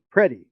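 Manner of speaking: Freddy said as Preddy, a P sound in place of the F; imitating his Filipino mother saying Freddy with a P, as Preddy; mother's way of saying Freddy. Mother calling her son Freddy, said with a P as Preddy. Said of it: "That was the way she said it".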